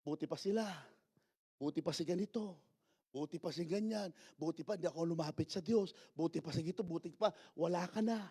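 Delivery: low, soft grumble; fearful grumbling. Acted. Frightened people comparing themselves to others, quiet grumbling. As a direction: grumble under your breath, well below speaking level. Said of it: "kapag natatakot kung ano-ano, ang lumalabas sa bibig".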